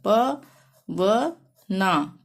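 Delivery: very slow, प then व then ना, clearly apart; teacher sounding out each letter of पवना; syllable by syllable. Shown as a demonstration. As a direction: split पवना into its letters for the class. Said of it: "जैसे कि हमने लिखना है पवना".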